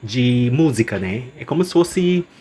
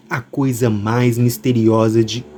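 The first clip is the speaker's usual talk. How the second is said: velvety narrator voice; slower than usual. Acted. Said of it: "minha voz aveludada".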